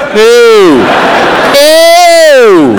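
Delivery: disgusted ew. Real, not acted. Disgust at children.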